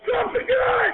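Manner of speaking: frantic high-pitched police yelling; shouting commands. Real, not acted. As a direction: scream orders at an armed man. Officer orders suspect to drop gun.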